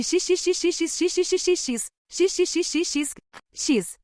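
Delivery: high hissing whispered syllables, fading; eerie whispering. A narrator's reading. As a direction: whisper it like an incantation. Jesse's strange whispered words.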